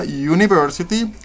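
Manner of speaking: "university" starting with a "you" sound, "junibersiti"; English pronunciation. Shown as a demonstration. Teacher to students: "university" said with a "you" at the start. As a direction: begin "university" with a clear "you" glide. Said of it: "al principio suena como you".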